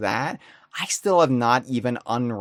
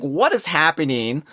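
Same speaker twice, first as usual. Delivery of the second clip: freaked out; 4 semitones higher, 5 dB louder than usual. Retold or imitated. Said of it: "And I freaked out".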